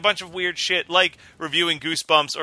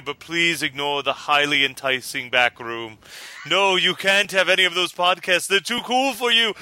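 spooky voice. Acted. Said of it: "should I do a spooky voice".

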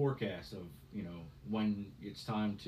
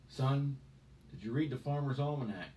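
lightly voiced old timer, a touch louder; a hint of a gruff old farmer; 5 semitones higher, 4 dB louder than usual. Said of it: "This, this guy had a deeper voice".

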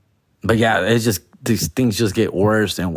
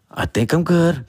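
hopeful check; 5 semitones higher than usual. Retold or imitated. Hopeful morning self-check.

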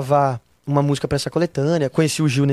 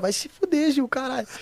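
mock exasperated cry, high; half-joking frustrated yell; exasperated outburst; 9 semitones higher, 6 dB quieter than usual. Real, not acted.

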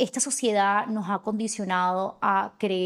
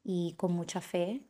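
soft, calm guiding voice; guided meditation; 4 dB quieter than usual. Acted. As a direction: lead the affirmation gently. Guided affirmation with eyes closed.

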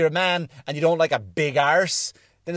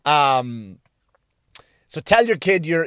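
ordinary talk

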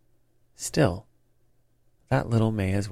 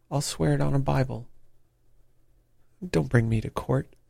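higher-pitched, understated begging; shrieked pleading; 4 semitones higher, 3 dB louder than usual. A narrator's reading. Ryder begs Holmes for mercy at his knees, pleading shrilly. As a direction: plead in a raised pitch, short of a real shriek. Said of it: "he shrieked".

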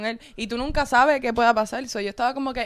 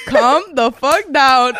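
calming friend; 3 semitones higher, 12 dB louder, much slower than usual. Retold or imitated. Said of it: "Diego estaba al lado de Carlos así como que".

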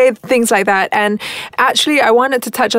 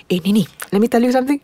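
lighting guy; much faster than usual. Retold or imitated. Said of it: "he looks up at me and goes".

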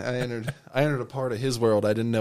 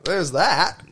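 surprised; 7 semitones higher, 7 dB louder, much slower than usual. Retold or imitated. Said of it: "was like".

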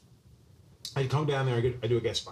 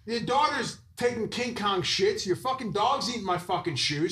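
raised, heated laughing rant; mock angry rant; 6 semitones higher than usual. Guest ranting at host about shoes, raised heated rant. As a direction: rant back in mock fury. Retold quarrel continued.

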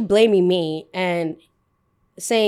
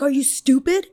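higher-pitched irate customer imitation; mock angry insult; 5 semitones higher than usual. Customer insulting the barista, mock angry and high. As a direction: fling an incredulous question, acting the customer.

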